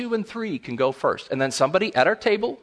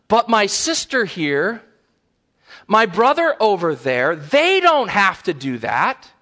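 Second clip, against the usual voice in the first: put-on drawn-out protest of a kid; lightly voiced indignant child; complaining child; 3 semitones higher, 4 dB louder, slower than usual. Child protests to parent about siblings, complaining. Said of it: "the child says".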